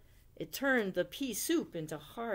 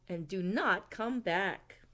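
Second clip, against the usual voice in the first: firm warning. Acted. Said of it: "called Owl".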